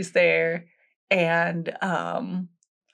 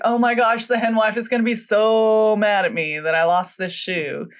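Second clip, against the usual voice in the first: mildly hammed-up panic, a bit raised; freaking out; 4 semitones higher, 3 dB louder than usual. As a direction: imitate her fretting that she's in big trouble. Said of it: "freaking out".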